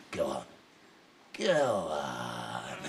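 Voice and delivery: very low, hushed urging; soft, drawn-out sinister coaxing; whispering tempter. Acted. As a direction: murmur it deep into an ear. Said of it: "has been whispering in every little ear".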